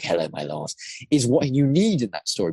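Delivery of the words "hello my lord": servile henchman. Retold or imitated. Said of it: "being like".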